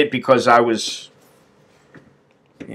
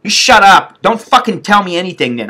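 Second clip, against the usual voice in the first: higher, mildly yelled retort; retold angry retort; 4 semitones higher than usual. Patient silencing the woman, retold angry retort. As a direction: snap back with a touch of re-enacted anger. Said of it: "I'm like".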